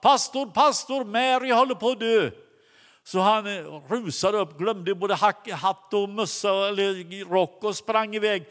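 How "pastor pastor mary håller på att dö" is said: higher, urgent call for the pastor. Retold or imitated. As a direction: call out for help, alarmed. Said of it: "någon och ropade". (ropar efter pastorn, ljust och brådskande)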